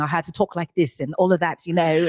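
lightly put-on British accent. Shown as a demonstration. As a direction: show off a bit of a British accent. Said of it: "I had a British accent".

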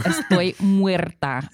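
hammed-up dying declaration, stretched out; mock dramatic. Actress reacts to a Hispanic accent request, mock dramatic.

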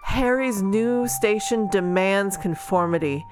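steady back-cover blurb read. Acted. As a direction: read it like a book jacket. Reads the book blurb.

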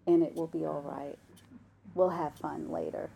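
unhurried, tender reassurance in a mom's voice; gentle mom. Retold or imitated. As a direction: reassure a fussy child gently. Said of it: "Mom says no very gently".

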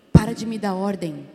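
husband's curt snap, loud; barking "stop giving me orders"; retold snap. Husband snapping at his wife to stop ordering.

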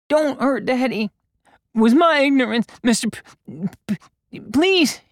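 put-on high, stammering boy begging; fearful pleading. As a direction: plead in terror for your father. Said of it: "Beau spouted with fear".

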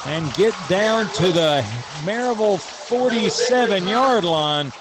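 excited. Real, not acted. Live kickoff return call.

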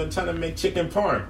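high, loud Brooklyn chef; Brooklyn accent. Acted. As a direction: put on a broad Brooklyn accent. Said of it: "he has a Brooklyn accent".

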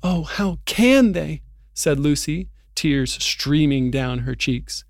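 steady audiobook read-aloud, letting the drama build; story narration. Acted. Reading Narnia's arrest of Aslan to his co-host, story narration.

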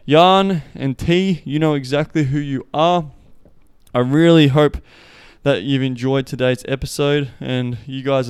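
loud, slow shout-out to named friends. Real, not acted. Host calling out to two listeners by name, loud and slow. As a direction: call their names out big and slow.

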